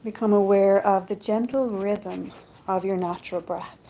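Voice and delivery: calm, unhurried meditation voice with long pauses; guided yoga nidra. Acted. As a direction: guide them gently into rest, leaving space between phrases. Leads a yoga nidra relaxation.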